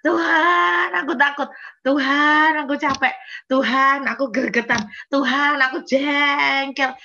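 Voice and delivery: acting out a desperate shouted prayer; re-enacted crying out. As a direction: call out each plea loudly, as if venting to God. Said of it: "saya teriak sebentar, nangis sejadi-jadinya".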